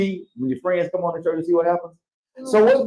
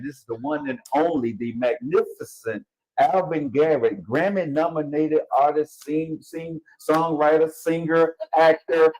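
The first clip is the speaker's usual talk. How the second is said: radio anchor voice; 3 semitones higher, 3 dB quieter, slower than usual. Acted. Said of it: "I was gonna try to be my professional radio, you know, anchor voice".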